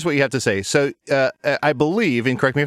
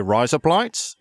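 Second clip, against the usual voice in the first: Australian-accent trick; 3 semitones higher, much slower than usual. Shown as a demonstration. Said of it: "that's how you say razor blades".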